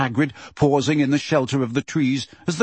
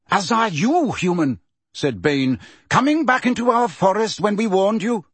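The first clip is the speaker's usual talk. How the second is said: threatening centaur; 7 semitones higher than usual. Acted. Bane warns Hagrid off, high and menacing. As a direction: warn the intruder off.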